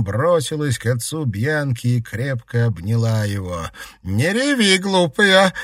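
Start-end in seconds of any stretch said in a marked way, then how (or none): 4.0-5.5 high, loud grandmotherly scolding. Acted. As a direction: scold her loudly through tears. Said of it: "отчитывала она Бьянку".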